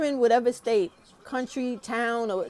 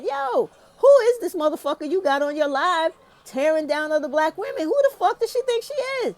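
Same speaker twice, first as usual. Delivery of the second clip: indignant callout that climbs to a high, fast yell; mock outraged challenge, building up; retold angry callout; 5 semitones higher than usual. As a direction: demand to know who she thinks she is. Confronting the host on live.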